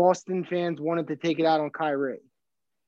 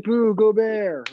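mock boo; 5 semitones higher, 5 dB louder, much slower than usual. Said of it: "I'm just gonna be like".

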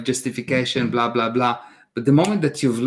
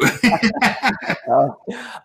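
high laugh; 9 semitones higher than usual. Real, not acted. Laughs after teasing line.

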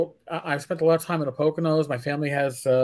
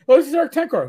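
high-pitched imitation of a proud wife; mock-proud, pitched-up introduction; retold introduction; 9 semitones higher, much faster than usual. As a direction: introduce him as if everyone should know. Retold wife introduces husband to stranger.

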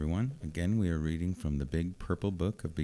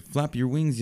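much higher encouraging call of "wings"; yelling; 8 semitones higher than usual. Acted. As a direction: urge him on from below. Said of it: "yelled Mister Bird".

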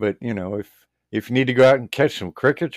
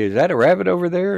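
feigned surprise; 7 semitones higher, 4 dB louder, faster than usual. Retold or imitated. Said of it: "I'd say".

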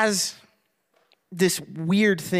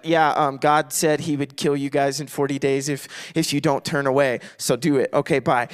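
unenthusiastic; 5 semitones lower than usual. Retold or imitated. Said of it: "but not really, like, super ecstatic".

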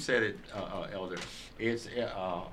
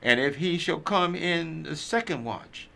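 scripture reading. Acted. Reader giving Luke twelve to responsive listeners, emphatic scripture reading. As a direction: proclaim each phrase deliberately, stretching key words.

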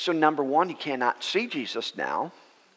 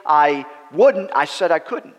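raised voice, loud and emphatic; slow, insistent correction, higher and much louder; Jesus; 5 semitones higher, 8 dB louder, slower than usual. Retold or imitated. Jesus correcting Hagin after going back and forth, raised voice. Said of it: "Jesus raised his voice".

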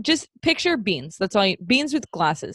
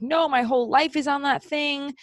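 mock freak-out; 6 semitones higher than usual. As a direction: mildly imitate someone going nuts. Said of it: "he starts going nuts".

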